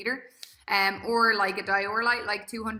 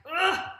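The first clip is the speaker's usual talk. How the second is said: strained grunt; 7 semitones higher, 5 dB louder than usual. Acted. Acting out straining at rep ten.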